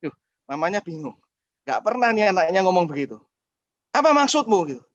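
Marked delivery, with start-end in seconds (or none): 3.9-4.6 high startled mother asking; a mother caught off guard; startled question. Retold or imitated. Mother to son, high startled question.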